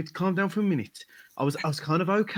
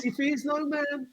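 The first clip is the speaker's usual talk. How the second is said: booming barker voice; 7 semitones higher than usual. Acted. Hype man repeats boast.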